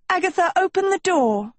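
put-on high, pressing girl voice; urgent plea. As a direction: demand it through the door. Pleading high.

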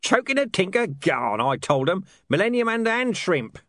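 lightly voiced rambling tramp; a hint of a muttering madman; mad old beggar. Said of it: "explained foul old Ron".

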